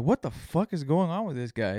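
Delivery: high, loud mock outrage, rising shriller as it goes; mocking girlfriend. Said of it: "my girlfriend was like".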